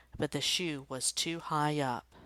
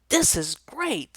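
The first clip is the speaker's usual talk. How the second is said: excited cheer; 8 semitones higher, 8 dB louder, slower than usual. Acted. Joey cheers at kickoff.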